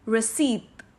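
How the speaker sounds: "receipt" as "ri-seet", slowly, no p; correct receipt. Shown as a demonstration. Teacher slowly gives the right "receipt". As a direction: draw out "receipt" without p. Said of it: "कैसे pronounce करेंगे".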